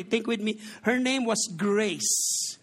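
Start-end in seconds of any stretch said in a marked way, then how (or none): 1.6-2.6 Grace said slowly in a light Visayan accent. Shown as a demonstration. Pastor giving the widow a name in a light Visayan accent. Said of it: "spoken in a Visayan accent".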